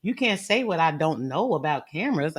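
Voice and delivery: very calm. Retold or imitated. Woman telling the brother he can't judge her, very calm. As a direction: keep it composed and measured. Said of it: "I said it very calmly".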